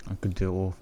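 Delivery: lisping through a retainer; slight retainer lisp. Real, not acted. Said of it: "I could do the whole twenty minutes like this".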